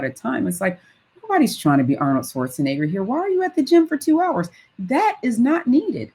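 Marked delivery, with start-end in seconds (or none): 3.0-6.1 high-pitched disbelief, pushed up hard; incredulous mock question. Poking fun at people who spend hours at the gym, mock disbelief. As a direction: squeak it out as if you can't believe anyone would do that.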